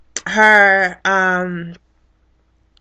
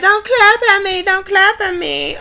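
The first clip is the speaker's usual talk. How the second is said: much higher, whiny protest; mock crying yell; 10 semitones higher than usual. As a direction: imitate her tearful complaint.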